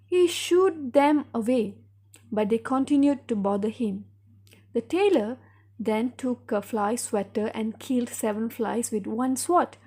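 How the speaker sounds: measured story narration for a class; story read-aloud. Acted. Teacher reads a tale for pupils to follow, measured storytelling. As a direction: read it out clearly for pupils to repeat.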